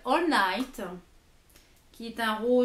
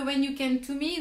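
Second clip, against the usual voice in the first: English title with a real French accent; strong French accent on the English. Real, not acted. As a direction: read the English name as a non-bilingual French speaker. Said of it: "Mon accent très français".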